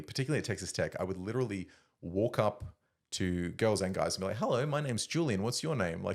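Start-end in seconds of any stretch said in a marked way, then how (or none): 4.4-6.0 self-mocking awkward introduction, pitched up; awkward greeting. Walking up to strangers at college, awkward greeting. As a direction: imitate your younger, socially awkward self saying hello. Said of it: "I would so awkwardly".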